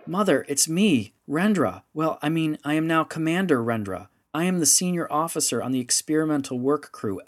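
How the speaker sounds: pleading harder, voice climbing; rising, desperate pleading. Acted. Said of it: "her voice rising in pitch and volume".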